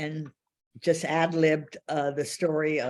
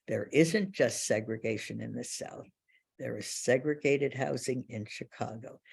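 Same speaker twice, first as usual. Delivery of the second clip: confiding low voice; 4 semitones lower than usual. Retold or imitated. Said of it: "So he whispers in my ear".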